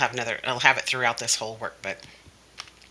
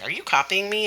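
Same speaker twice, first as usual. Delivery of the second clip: higher-pitched parroted question; copycat child; 7 semitones higher than usual. Acted. Child copying the teacher's question, copycat echo. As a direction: echo the mock-indignant question back. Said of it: "And they'll say".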